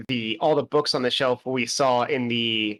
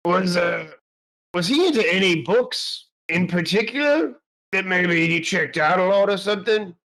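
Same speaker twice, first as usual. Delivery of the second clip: in-character question; 3 semitones higher than usual. Acted. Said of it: "and he's like".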